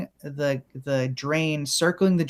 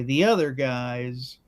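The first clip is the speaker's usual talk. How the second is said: low slow demo read; 4 semitones lower, slower than usual. Shown as a demonstration. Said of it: "We just wanna say".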